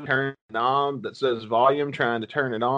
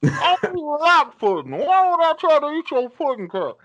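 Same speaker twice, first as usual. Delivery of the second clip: much higher, louder, whiny refusal; reluctant victim; 13 semitones higher, 5 dB louder than usual. Acted. Host voicing a scared victim refusing pudding, high and whiny. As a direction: push back, nervous and squeaky.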